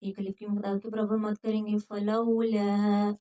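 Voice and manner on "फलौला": फलौला very slow, soft lam; tajweed demo. Shown as a demonstration. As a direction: stretch फलौला gently. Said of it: "लाम को नरमी के साथ".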